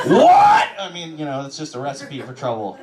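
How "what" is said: mock shock. Mock outrage at the claim.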